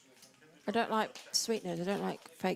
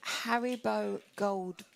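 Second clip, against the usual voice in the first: each word spelled out slowly; slow and clear; much slower than usual. Shown as a demonstration. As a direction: say it slowly so it's understood. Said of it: "I think it sounds like I'll have a Diet Coke".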